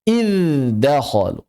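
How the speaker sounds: "Iddakhalu" drawn out as "idz-dakhalu"; slow, unmerged "idz-dakhalu"; clear izhar. Shown as a demonstration. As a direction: sound the dz fully before the d in "Iddakhalu".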